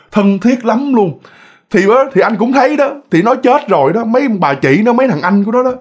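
mildly worked-up retelling of a haunted night; half-acted aggrieved uncle pouring out his story; lightly voiced man. Voices Chính telling his story.

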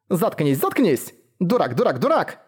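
angry yelling, rising on each repeat; shouting in a rage, pitch climbing; furious shout. Acted. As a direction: lash out, calling him a fool over and over. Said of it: "влепила Юсихару пощёчину".

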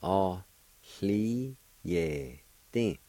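very slow, each syllable separated. Shown as a demonstration. Teacher showing the second part of the word, syllable by syllable. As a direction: stretch out every syllable with gaps between. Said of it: "Second part".

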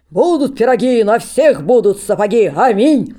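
loud, high, crazed holy-fool cry; the holy fool yelling a wild rhyme at the crowd; unseemly voice. Acted. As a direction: howl it like a madman. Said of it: "кричит неподобным голосом".

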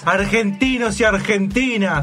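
hammed-up politician address; mock patriotic speech.

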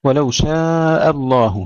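slow recitation, long آ in شاء, hamza kept thin; light hamza. Shown as a demonstration. Teacher models a Quran verse for students, light hamza. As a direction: draw out شاء, then a light, unthickened hamza. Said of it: "ترقيق الهمزة".

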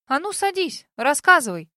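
loud bossy command. A narrator's reading. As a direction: order her to sit and talk. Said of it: "скомандовала она". (командным тоном)

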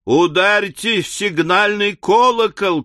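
high, urgent call for help; alarmed shout. A narrator's reading. Several voices calling for the alarm bell, shouting. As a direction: cry the order in panic. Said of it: "крикнуло несколько голосов".

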